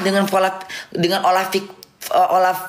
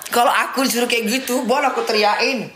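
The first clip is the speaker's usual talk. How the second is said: laughing; 4 semitones higher than usual. Real, not acted. Laughing while talking.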